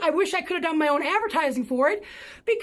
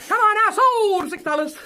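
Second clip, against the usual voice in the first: louder, higher sale shout; auctioneer's closing call; 5 semitones higher, 6 dB louder than usual. Shown as a demonstration. Closing the practice sale, loud auctioneer call. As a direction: call out the winning bid.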